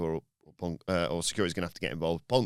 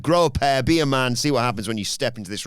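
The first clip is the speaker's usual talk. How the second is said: loud, raised mock challenge; Punk yelling a challenge; 5 semitones higher, 5 dB louder than usual. Punk taunting Balor from the ring, loud. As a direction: call him out from the ring. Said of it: "yelling at him".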